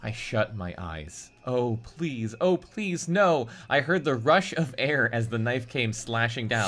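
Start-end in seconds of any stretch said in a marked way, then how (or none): 1.5-3.5 frightened plea. Acted. Narrator voices the victim's plea.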